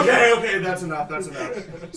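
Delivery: loud okay then settling; Grimble calling a halt. Acted. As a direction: wave it to a stop. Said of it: "Grimble goes".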